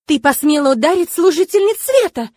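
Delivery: high, loud indignant shriek. A narrator's reading. Nun shrieking at the girl who threw her into the wall. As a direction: shriek in outrage. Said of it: "взвизгнула та".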